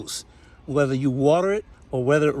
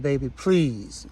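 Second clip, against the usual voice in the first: loving plea; slower than usual. Retold or imitated. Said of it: "Just lovingly said".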